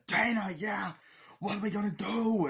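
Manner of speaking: high, slightly hammed-up exclamation; mock panicked outburst; retold alarm. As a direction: act out alarm at bad news.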